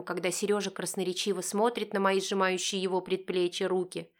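usual speaking voice

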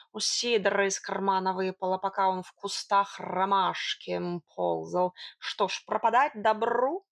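lightly voiced, unhurried cat; wily tomcat, self-justifying. Cat justifying the coin to his mistress, lightly voiced wheedling. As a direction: stretch words lightly like a purring cat.

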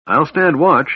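loud, high call; calling out loudly. A narrator's reading. Tanis warning Alhana before walking outside, calling out loudly. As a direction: call it out, pitched well up. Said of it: "he called out loudly".

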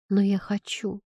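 ordinary delivery, nothing marked

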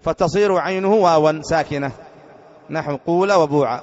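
slow, deliberate reading; reading the grammar text. Shown as a demonstration. Teacher reading the book's examples slowly. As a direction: carefully read out the rule's examples. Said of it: "اللغة الثالثة قال".

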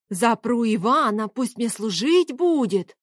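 slow, drawn-out mocking imitation of an old tyrant; nasty old man. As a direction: quote the old man's threat slowly, mimicking him. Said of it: "какой противный". (передразнивая противного старика)

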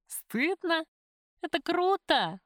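incredulous "Стыдно?", then an enthusiastic "Это круто!"; exclaiming. A narrator's reading. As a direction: scoff at the very idea, then cheer it. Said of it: "воскликнула Любка".

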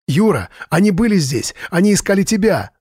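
высоко, в панике, задыхаясь; кричит в трубку, запыхавшись; задыхаясь крича. A narrator's reading. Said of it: "задыхаясь, кричал Джордж". (задыхающийся панический крик)

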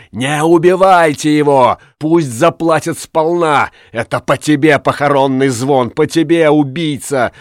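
high, impassioned vengeful tirade; woman shouting for full payback; vengeful crying out. A narrator's reading. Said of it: "кричала Тория".

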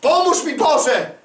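high imitated plea, easing down; mock cry for help. Preacher imitating a believer begging God, mock cry for help. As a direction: plead to God as the helpless believer, lightly acted.

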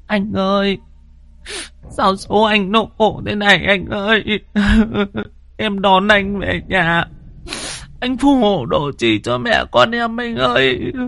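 high keening widow's wail; wailing lament. A narrator's reading. Widow wailing to her dead husband on the way home. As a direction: cry out to the dead husband in grief. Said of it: "thím Nhàn ở bên kia thì than vãn".

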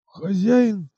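a high, strained cry of "master"; choked rasp. Acted. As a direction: squeeze the word out choked. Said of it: "сдавленным голосом прохрипел бродяга".

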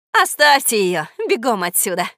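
commanding. Acted. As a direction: command them to stop. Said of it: "приказала мудрая гусыня".

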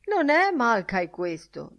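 loud, high, slow protest; indignant drunk. Acted. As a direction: declare it like an affronted drunk. Drunk's punchline in custodian's anecdote.

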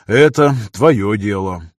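slow, drawn-out concession; weighty, resigned mentor; sighing resignation. Acted. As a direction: let it out slowly, as with a sigh. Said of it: "вздохнул тот".

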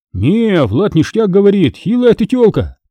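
a hint of a smug lazy young man; slow drawl. A narrator's reading. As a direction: stretch it out, enjoying the put-down. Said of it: "Медленно, в растяжку, и с удовольствием".

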